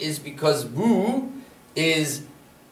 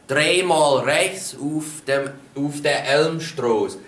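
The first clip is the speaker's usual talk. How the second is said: slow repeat; slower than usual. Shown as a demonstration. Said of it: "For example".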